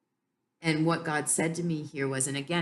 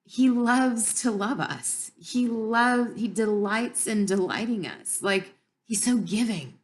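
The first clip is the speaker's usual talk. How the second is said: slow, louder, choked-up emotion; fighting back happy tears while speaking; tearing up; 3 semitones higher, 5 dB louder than usual. Real, not acted. Tearing up while telling her about God's love. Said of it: "and I'm tearing up now".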